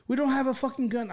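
high-pitched mock yell at normal volume; retold scream. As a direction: re-enact screaming at a cop without really shouting. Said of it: "I'm screaming".

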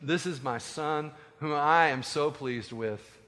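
slow, measured divine pronouncement; voice from heaven. Acted. God presenting his son from the cloud, solemn and slow. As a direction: speak slowly and solemnly as God. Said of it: "a voice from heaven says".

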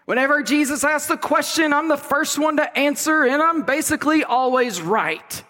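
a hint of a cocky disciple; boastful Peter. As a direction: brag like you're obviously the best. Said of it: "He's like".

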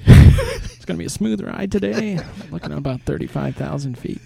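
lightly voiced airline captain announcement; a hint of a cockpit PA welcome; pilot voice. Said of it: "in the pilot voice".

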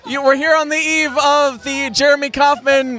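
hammed-up red carpet host; gushing red carpet chatter. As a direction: gush like a showbiz reporter.

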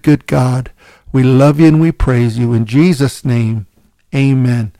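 earnest spoken prayer to the Lord; measured church prayer voice. Acted. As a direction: pray it out steadily and reverently. Closing prayer before sermon.

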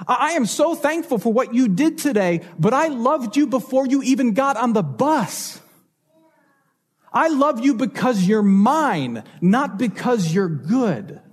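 slowing down, gentle and sincere; tender reassurance. Retold or imitated. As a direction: reassure your child calmly. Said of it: "you would say".

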